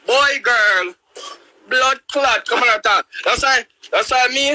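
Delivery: excited high-pitched rant; fired-up outburst. Real, not acted. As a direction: hype it up high.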